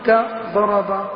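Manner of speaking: كضرب said very slowly, daraba; slow teaching example. Shown as a demonstration. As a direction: spell out وضربا syllable by syllable. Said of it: "الماضي المجرد".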